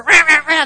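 mock "rah, rah" griping noise; imitated fussing; frustrated grumbling. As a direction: growl out nonsense in pretend frustration. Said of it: "get really frustrated".

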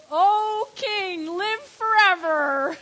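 tearful, voice breaking on the words; real tears over the reply from the den; choked up. Real, not acted. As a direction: let the tears come through as you say it. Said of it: "makes me cry every time I read that".

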